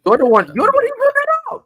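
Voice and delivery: very high, loud squeaky protest; shrill falsetto outburst; indignant squeal. Real, not acted. Indignant comeback to being hushed.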